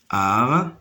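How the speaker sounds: "Armoire" in three separated syllables, ar-moi-re. Shown as a demonstration. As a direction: pause after each beat of "Armoire". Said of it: "se compose de trois syllabes". (« Armoire » syllabe par syllabe : ar… moi… re)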